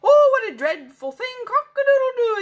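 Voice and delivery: loud, high dismayed rooster cry; exclaiming rooster. Acted. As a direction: gasp in horror, then crow. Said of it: "exclaimed Cocky Locky".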